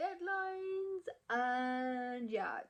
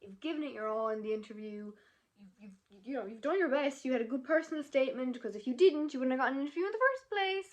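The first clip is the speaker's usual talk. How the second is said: encouraging, building louder and higher; positive self pep talk; 3 semitones higher, 5 dB louder than usual. Retold or imitated. Student reassuring herself after the interview, urgently positive. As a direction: talk yourself round, insistently. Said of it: "trying to stay positive and say".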